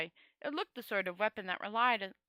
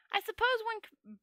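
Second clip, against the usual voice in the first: thoughtful little man; 12 semitones higher than usual. A narrator's reading. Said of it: "said the little man thoughtfully".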